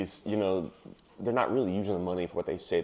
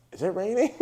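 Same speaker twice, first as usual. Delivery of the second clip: sleepy friend voice; 11 semitones higher than usual. Retold or imitated. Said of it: "Emily goes".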